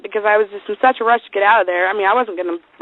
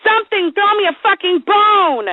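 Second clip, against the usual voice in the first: exasperated plea; 9 semitones higher than usual. Real, not acted. Begging co-host to laugh, exasperated. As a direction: plead for any reaction, pitched right up.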